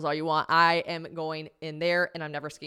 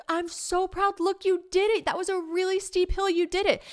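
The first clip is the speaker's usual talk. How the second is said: higher, gushing encouragement voice; proud boyfriend; 11 semitones higher than usual. Retold or imitated. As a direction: cheer her on like a proud partner. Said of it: "he'd look at me and be like".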